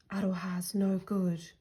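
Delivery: ordinary delivery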